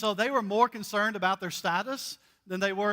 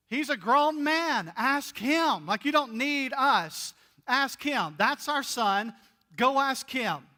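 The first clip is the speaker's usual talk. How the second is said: mock-defensive parents, slower and higher; parents brushing it off; 4 semitones higher, slower than usual. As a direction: push the question away like nervous parents. Parents voiced pushing son off.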